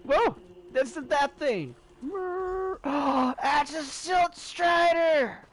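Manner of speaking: high, loud, drawn-out excitement; giddy fan shouting at a beloved sight; real amazement. Real, not acted. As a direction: gasp and cry out in astonished delight. Spots a Silt Strider, amazed.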